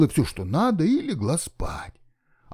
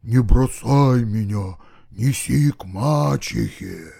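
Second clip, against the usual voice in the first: slow, louder muffled skull voice; 4 semitones lower, 3 dB louder, slower than usual. Acted. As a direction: speak slow and hollow from inside a skull. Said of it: "глухой голос из черепа".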